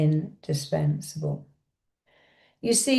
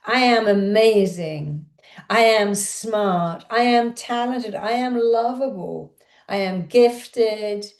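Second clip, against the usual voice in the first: shouting affirmations. Shown as a demonstration. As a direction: proclaim each one like you mean it. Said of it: "but shout them out".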